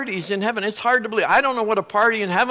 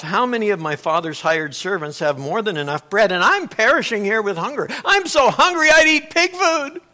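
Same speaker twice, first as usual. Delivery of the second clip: son's desperate plea; 3 semitones higher, 5 dB louder than usual. Retold or imitated. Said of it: "he says to himself".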